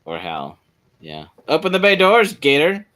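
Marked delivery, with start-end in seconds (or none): 1.5-2.9 higher, louder movie-quote delivery; HAL quote. Pretend. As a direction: deliver it like a sci-fi line.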